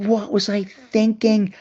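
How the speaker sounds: retold self-reproach. Retold self-reproach after audition.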